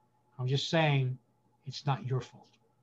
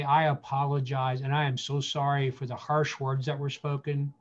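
stand-in father's apology; 2 semitones lower than usual. Pretend. Pastor speaking as the absent father to hurt listeners, gently sorry. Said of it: "let me stand in the place of that father".

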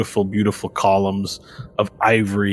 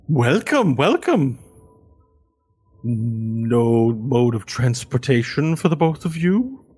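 butler greeting; 3 semitones higher, slower than usual. Acted. Butler greets arriving travelers at the gate, politely wary. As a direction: greet the strangers with polite suspicion.

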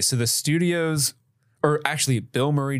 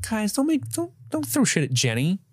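mock plea; 11 semitones higher than usual.

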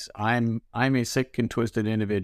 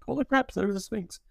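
amazed; 10 semitones higher, 3 dB quieter than usual. Retold or imitated. Retold awe at the Sphinx.

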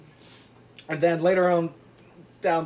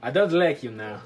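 Poirot; 2 semitones lower than usual. Acted. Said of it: "he reads the notes and he's like".

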